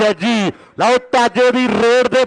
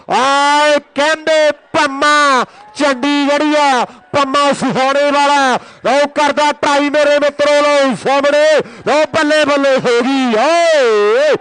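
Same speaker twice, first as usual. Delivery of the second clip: excited commentary; 3 semitones higher than usual. Real, not acted. Tackle succeeds, commentator erupts.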